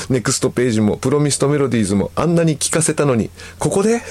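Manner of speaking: protest, then jump high on the question; mock disbelief. Wife protesting husband's sudden liking, incredulous.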